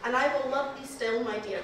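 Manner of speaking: put-on reciting Burns in a light Scottish accent; a gentle Scottish accent on the love lines; tender verse in a mild Scottish accent. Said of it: "this is me trying to do a Scottish accent".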